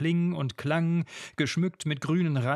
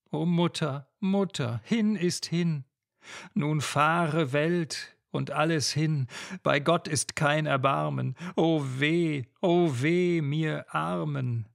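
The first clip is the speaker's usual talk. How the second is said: despairing lament; 2 semitones higher than usual. Acted. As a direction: cry out your loss to mother. Lenore laments to her mother.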